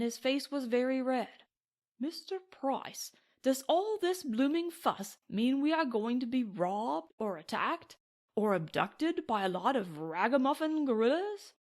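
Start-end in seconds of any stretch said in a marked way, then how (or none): 2.0-11.5 indignant Englishman. Acted.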